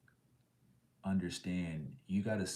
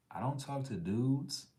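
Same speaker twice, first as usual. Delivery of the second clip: higher, slow, offended denial; indignant; 7 semitones higher, 3 dB louder than usual. Real, not acted. Denying to chat he ever talked to a guy, indignant. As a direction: stretch it out, insulted by the idea.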